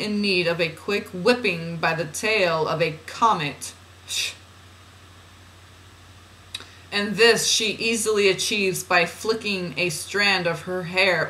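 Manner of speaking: measured, deliberate spiritual reading; oracle reading. Acted. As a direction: read it out as solemn guidance. Reads channeled guidance aloud.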